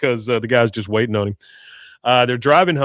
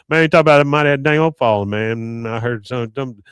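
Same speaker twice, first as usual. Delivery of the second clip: Boom; 4 dB louder than usual. Retold or imitated. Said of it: "Boom says".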